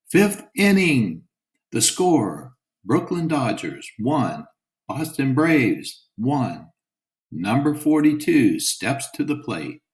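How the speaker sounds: lightly voiced play-by-play with slow, drawn-out phrases; radio announcer. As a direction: call the game over the radio. Radio announcer calling the game.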